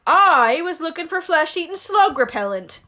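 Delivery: mild mock growl; a hint of a grumbling giant; growling Hagrid. Hagrid explaining himself, mild growl. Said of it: "growled Hagrid".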